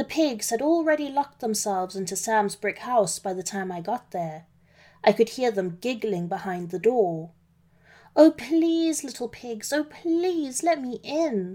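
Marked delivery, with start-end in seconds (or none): 8.1-11.6 slow, high, drawn-out, begging plea. The wolf speaks to the pigs locked behind the door: pleading. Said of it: "I pleaded with them".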